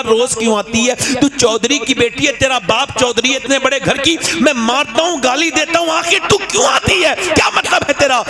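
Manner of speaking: rising from a grumble to a high, shouted demand; building angry rebuke. Acted. Chaudhry yelling at his wife for coming every day, angry shout.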